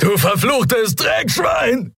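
very high, slow screamed curse; furious scream. A narrator's reading. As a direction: scream it after him with all his hate.

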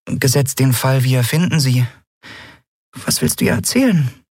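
high piping curious voice; curious chirp. A narrator's reading. Nelen asking Endriel curiously, high. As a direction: ask it small and nosy.

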